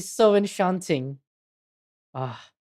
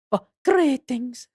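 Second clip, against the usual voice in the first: higher, drawn-out GREETINGS; witch's greeting; 8 semitones higher, slower than usual. Acted. Newly appeared witch greets the visitors, slow higher character voice. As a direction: stretch GREETINGS slowly in a raised character voice.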